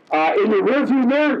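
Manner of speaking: high, hesitant offered answer; high uncertain half-laughing reply; sheepish guess. Retold or imitated. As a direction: offer it like a lame excuse. His own retold sheepish answer.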